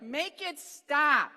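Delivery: hammed-up teammates pleading for mercy; desperate plea. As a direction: beg it to stop like you're drowning in the smell. Teammates begging behind the elephant.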